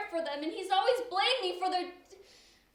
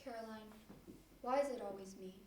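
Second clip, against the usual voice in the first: weak lament; 7 semitones lower, 11 dB quieter than usual. Acted. Dying Elise, weak in hospital.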